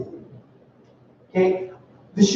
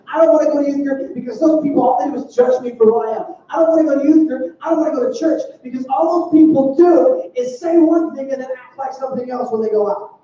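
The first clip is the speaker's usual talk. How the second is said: put-on higher, whining teen protest; whiny complaint; 3 semitones higher than usual. Youth pastor mimics teen refusing church. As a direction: complain like a sulky teenager.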